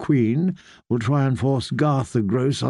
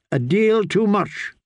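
higher and slowed, cutting him off; sharp snap; 6 semitones higher than usual. Acted. Queen cutting off her son's praise of Margaery, snapping. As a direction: bite the words off coldly. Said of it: "Cersei snapped".

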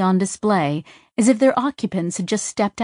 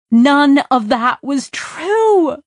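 gleeful laugh; 7 semitones higher, 6 dB louder, much slower than usual. Acted. Gleeful reveal to Tak.

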